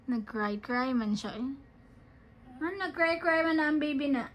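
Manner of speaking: normal talking voice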